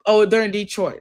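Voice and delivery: the answer just popped up, say oh, they're in Detroit with a jolt; sudden discovery. Real, not acted. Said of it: "I see it now".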